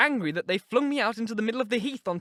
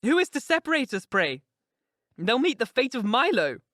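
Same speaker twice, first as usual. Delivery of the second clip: higher, louder indignant outcry; 7 semitones higher, 7 dB louder than usual. A narrator's reading. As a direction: flare up in defiance of the idea. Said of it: "she exclaimed with an accent of indignation".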